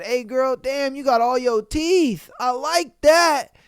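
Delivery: mock the creep drawing out his compliment; creepy catcaller voice. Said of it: "This nigga said".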